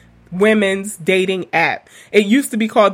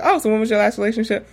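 brisk retold question; fast, casual quoted asking; really quick; faster than usual. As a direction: rattle off the question, replaying the exchange. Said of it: "Like, really quick, y'all".

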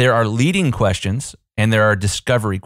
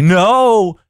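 higher, louder mock kid refusal; child's no; 10 semitones higher, 7 dB louder than usual. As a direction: blurt it like a four-year-old. Daughter's answer voiced.

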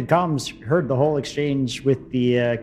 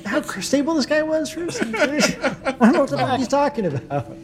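panicked aside; 12 semitones higher than usual. Acted. Controller panics about crazy crewmate.

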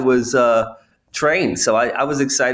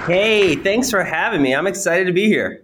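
upbeat, slightly raised greeting; excited; 3 semitones higher than usual. Real, not acted. Guest thanking the hosts for having him, mildly excited. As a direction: glad to be invited on, a touch excited. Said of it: "you sound excited".

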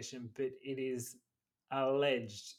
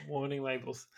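laughing. Real, not acted. Repeating the joke while laughing.

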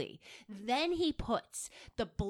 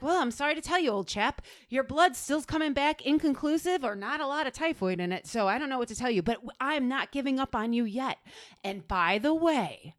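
fake loyal friend; 3 semitones higher, faster than usual. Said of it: "like his loyal friend".

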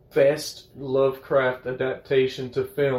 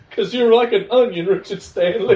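mock Shrek quote; 9 semitones higher, 7 dB louder than usual. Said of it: "Shrek quote, onion layers".

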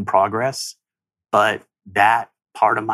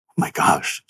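stunned whisper. Real, not acted. Stunned after hearing the voice.

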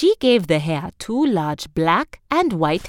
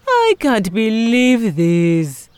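upset farmer; 3 semitones higher, 5 dB louder, much slower than usual. A narrator's reading. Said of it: "said the farmer".

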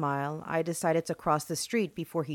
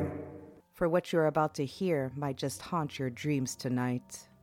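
horror host; 2 semitones lower than usual. Acted. Horror podcast host intro.

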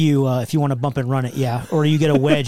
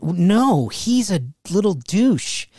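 scornful; 4 semitones higher, much slower than usual. Retold or imitated. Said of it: "and I went".

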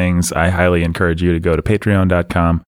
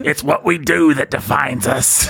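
lightly voiced princess; a hint of a cartoon princess; Princess Leia voice; 4 semitones higher than usual. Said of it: "give him a preview of your Princess Leia voice".

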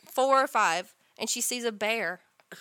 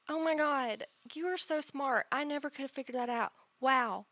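fake flattery; 6 dB quieter than usual. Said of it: "stop telling me".

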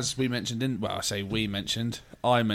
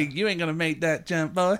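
demo of quote; 4 semitones higher than usual. Shown as a demonstration.

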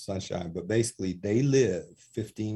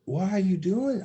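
much higher, louder cry of disbelief; anguished protest; 11 semitones higher, 5 dB louder than usual. Retold or imitated. Speaker protesting prison lockdown, much higher anguished outcry.

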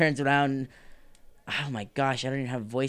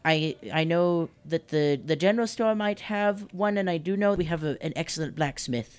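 higher-pitched, hesitant shopkeeper; helpful shopkeeper; 3 semitones higher than usual. Acted. Shopkeeper pointing a customer to the blacksmith, helpful. Game master voices the shopkeeper.

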